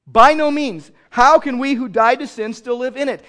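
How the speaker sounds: loud, high indignant cry; Paul's outraged refusal, loud. Retold or imitated. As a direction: hurl it back in outrage. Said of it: "he was indignant".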